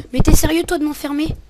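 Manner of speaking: rising, outraged gamer complaint; indignant outburst. Real, not acted. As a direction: shriek at a teammate's betrayal. Teammate trapped him in game. (indigné et suraigu)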